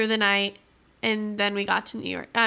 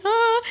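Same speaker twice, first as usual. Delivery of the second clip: mock sob; 12 semitones higher, 5 dB louder than usual. Imitating people crying at farewell.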